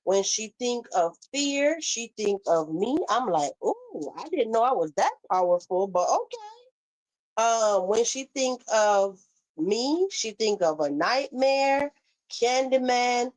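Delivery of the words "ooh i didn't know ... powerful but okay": mock flattered. Sarcastic reply to an insult.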